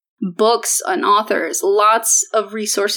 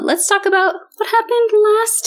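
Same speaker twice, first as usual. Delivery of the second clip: whisper; 12 semitones higher than usual. Acted. Whispered recap intro.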